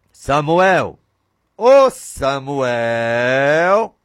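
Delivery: very slow, drawn-out call from far away; God's distant call. Acted. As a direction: stretch the name like a voice from heaven. God calls Samuel from afar. (chamado lento e distante, como voz de Deus)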